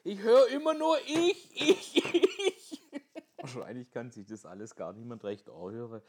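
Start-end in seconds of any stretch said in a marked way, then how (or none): 0.0-2.8 much higher, much louder shout; furious outburst. Retold or imitated. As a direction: explode at her. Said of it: "haut auf den Tisch und regt sich auf". (wütend losbrüllend)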